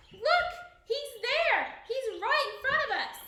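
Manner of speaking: high, loud frantic yelling; frantic shout. A narrator's reading. King shouting at the guests about the ghost. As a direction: point and scream at the ghost. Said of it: "shouted Macbeth".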